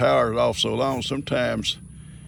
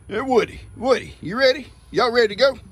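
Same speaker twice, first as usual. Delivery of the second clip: high, louder call to the goats; excited calling; 11 semitones higher, 5 dB louder than usual. Real, not acted. Papa calling his goats to get ready to ride.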